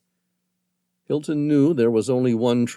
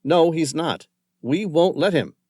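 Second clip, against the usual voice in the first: firm refusal; 7 semitones higher, 5 dB louder than usual. Acted. Haddock refuses firmly.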